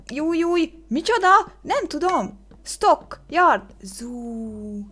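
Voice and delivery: high, loud frantic guessing; real high-pitched flustered outburst; flustered panic. Real, not acted. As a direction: blurt it out as time runs out. Panicking as guessing time runs out.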